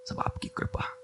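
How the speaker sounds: high thin put-on voice of a humble disciple; lightly mock the over-modest follower. Disciple thanking guru, in a high mock-humble voice.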